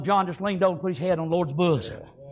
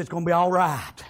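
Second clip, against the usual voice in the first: unruffled John; 2 semitones lower than usual. Acted. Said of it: "he's taking it all in".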